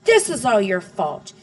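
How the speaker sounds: loud, high call of the name, then ranting; angry yell. A narrator's reading. Father blaming his wife, loud and angry. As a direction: blame her at the top of his voice. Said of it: "My father stood up and yelled".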